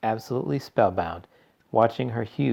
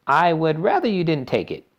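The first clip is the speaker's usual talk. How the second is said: gentle; 8 semitones higher, 5 dB louder than usual. A narrator's reading. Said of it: "told her gently".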